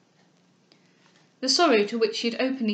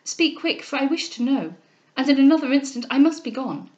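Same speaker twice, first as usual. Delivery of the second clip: higher, louder urgent demand; agitated, impatient raised voice; crying out; 4 semitones higher, 5 dB louder than usual. Acted. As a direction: press urgently for an answer. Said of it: "cried she".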